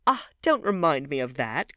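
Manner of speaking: loud, high protest; crying out. A narrator's reading. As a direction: exclaim it in dismay. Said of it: "cried Dorian Gray".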